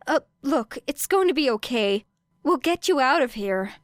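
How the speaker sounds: put-on a cop trying to calm a kid, clearly out of his depth; officer reassuring the girl, nervous and awkward; panicked police officer.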